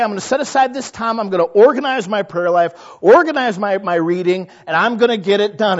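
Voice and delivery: loud, quick, overconfident plans; eager resolution. Retold or imitated. Preacher mimics churchgoer's fast, loud Monday vows.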